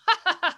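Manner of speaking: loud, high burst of laughter; retold laugh. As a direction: re-enact laughing out loud at the credits. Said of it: "I had a laugh".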